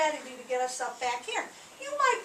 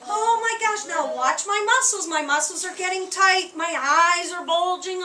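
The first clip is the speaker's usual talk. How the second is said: loud, raised mock alarm; pretend scared; 3 semitones higher, 5 dB louder than usual. Teacher showing children a frightened body, mock scared. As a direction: play up the panic for the class. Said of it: "'cause I'm really scared".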